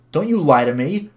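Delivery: loud acted telling-off; furious. Woman accuses visitor of lying, furious. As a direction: belt it out in anger. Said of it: "she belted out the words furiously".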